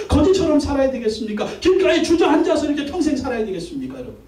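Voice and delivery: pleading pulpit exhortation; impassioned preaching. Real, not acted. Pastor challenges congregation living like beggars, impassioned preaching. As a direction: press each question urgently on the listeners.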